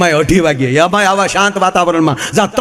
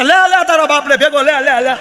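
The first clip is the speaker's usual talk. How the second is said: thieves yelling as they flee; 9 semitones higher than usual. Acted. Fleeing thieves to each other, panicked higher yell. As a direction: scream it while running away.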